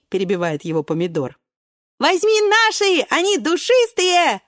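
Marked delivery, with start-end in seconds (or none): 2.0-4.4 laughing cherries. Acted. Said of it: "хохочут наперебой вишенки".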